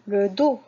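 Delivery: "le dos" said clearly, the s silent; clear model word. Shown as a demonstration. Teacher models the word for pupils, clearly. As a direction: say "le dos" with a final "do". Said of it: "regardez bien ce mot-là".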